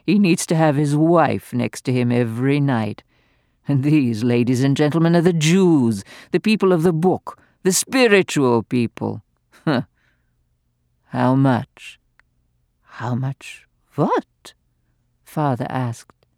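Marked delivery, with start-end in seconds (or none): 0.1-12.0 gleeful, venomous dowager mocking the doctor; venomous old lady. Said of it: "gloated Lady Bromley". 13.0-14.5 stunned. Acted.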